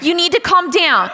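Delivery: stretched-out, mildly panicked order; alarmed officer imitation. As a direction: imitate a cop growing alarmed. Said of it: "he starts getting more alarmed".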